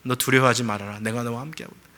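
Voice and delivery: God comforting a grieving deacon, quietly; voice of God, softly. Retold or imitated. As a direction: speak it like a hushed comfort from above. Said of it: "그런 음성인 거예요".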